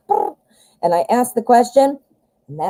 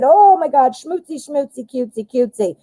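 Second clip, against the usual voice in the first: put-on high cooing baby talk; mock lovey-dovey; 5 semitones higher than usual. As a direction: coo it like a smitten couple.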